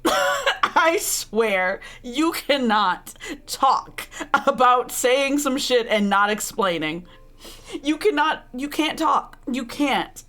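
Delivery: emphatic, incredulous telling-off; exasperated scolding. Real, not acted. Streamer calling out the hypocritical heroine, exasperated. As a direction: spell it out to her, fed up.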